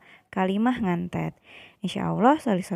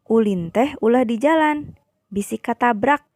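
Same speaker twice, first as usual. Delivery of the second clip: somewhat raised, emphatic warning; rather forceful prohibition; 2 semitones higher, 4 dB louder than usual. Shown as a demonstration. Teacher models warning children off playing in the road, rather forceful. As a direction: give the warning with a little extra force. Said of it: "rada bedas".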